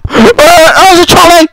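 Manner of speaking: high, loud gleeful shout; reacting to the trolley in the game; excited cry. Real, not acted. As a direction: call it out with a burst of glee. Excited outburst during the game.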